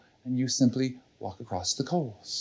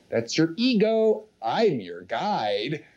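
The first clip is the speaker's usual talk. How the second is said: rival inner voice; slower than usual. Acted. One inner voice rebuking another, insistent. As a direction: insist on being the true guide. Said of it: "another voice goes".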